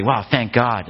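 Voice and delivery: casual relieved "Wow, thank God"; everyday relief, not a prayer; offhand exclamation. Shown as a demonstration. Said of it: "like, yeah".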